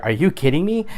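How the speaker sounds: like someone just cut you off; exasperated disbelief. Retold or imitated. Driver reacting to traffic, exasperated disbelief. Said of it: "In a movie theater".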